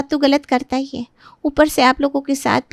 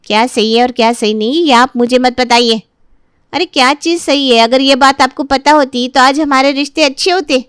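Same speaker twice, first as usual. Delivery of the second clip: louder, bitter rebuke to her husband; angry retort; 5 dB louder than usual. Acted. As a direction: throw his words back at him, angrily. Wife snaps at husband.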